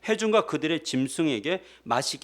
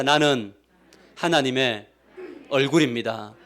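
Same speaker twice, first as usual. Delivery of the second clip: congregation repeats aloud; 3 semitones lower than usual. Real, not acted. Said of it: "답시다".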